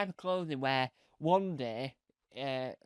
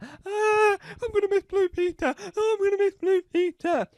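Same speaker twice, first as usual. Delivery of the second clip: high, fast hammed-up farewell; mock tearful presenter; 6 dB louder than usual. Departing presenter mourning leaving, hammed-up and high. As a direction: wail it like a departing host.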